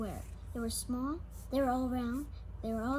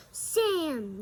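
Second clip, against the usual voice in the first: class yelling; 4 semitones higher, 6 dB louder than usual. Acted. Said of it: "yelled the frogs".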